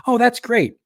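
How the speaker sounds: high, loud mock praise; mock-impressed girlfriend. Girlfriend reacting to his fake lawyer name, loud mock enthusiasm. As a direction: gush it in an imitated high voice.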